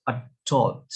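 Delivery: adult in American English, stress on the second syllable, a-DULT; American pronunciation. Shown as a demonstration. Student showing classmates American adult, a-DULT. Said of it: "The first example is".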